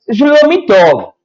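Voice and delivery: "שלומי טוב" said as Hebrew "shlomi tov"; Hebrew phrase. Shown as a demonstration. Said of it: "la respuesta en hebreo es".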